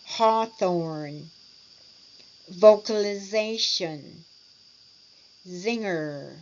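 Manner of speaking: "Hawthorn, vocalization, zinger" drawn out sound by sound; over-articulate each word, one at a time; over-articulation. Shown as a demonstration. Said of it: "you are over-articulating for all of them".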